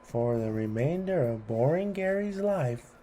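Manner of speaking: loud, grand spell-casting proclamation; casting a hex. Acted. Child hexing boring Gary, a loud mock spell. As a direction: declaim the curse like a mock sorcerer.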